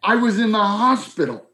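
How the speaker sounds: high, squeaky outraged friend; Mark's high indignant squawk. Retold or imitated. Old friend on the phone, shocked and high-pitched. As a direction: play a buddy hurt he wasn't told. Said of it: "I said".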